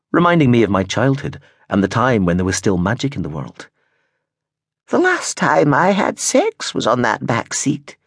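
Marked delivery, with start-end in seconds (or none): 4.9-8.0 put-on slow, wistful old woman. A narrator's reading. Gran recalling her past to Prentice, wistfully slow. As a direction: remember it fondly, slowly. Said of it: "she said wistfully".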